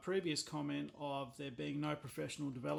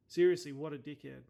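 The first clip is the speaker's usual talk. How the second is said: "Seriously" punched out louder in real annoyance; louder real exasperation; 6 dB louder than usual. Real, not acted. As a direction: lean in and say it louder the second time. Repeats insult, second louder.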